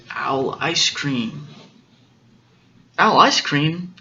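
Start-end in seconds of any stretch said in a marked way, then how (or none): 3.0-3.9 mildly alarmed owl question; acted surprise, rising at the end; startled echo. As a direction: echo it in storybook disbelief.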